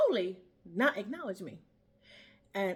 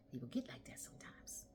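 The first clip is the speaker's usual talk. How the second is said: hushed aside; 10 semitones lower, 15 dB quieter than usual. Real, not acted. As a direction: drop to a soft whisper.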